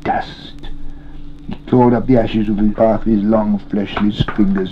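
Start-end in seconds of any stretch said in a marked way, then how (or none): 0.0-0.7 whispered, drawn-out hiss; soft sibilant creature whisper. A narrator's reading. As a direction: hiss "dust" with a long s. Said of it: "he hissed".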